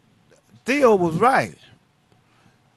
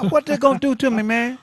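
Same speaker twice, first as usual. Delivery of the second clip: retold higher-pitched challenge; defiant retort; 4 semitones higher, faster than usual. Man retelling his answer to people who warned him, defiant. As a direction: throw the question back, pitched up.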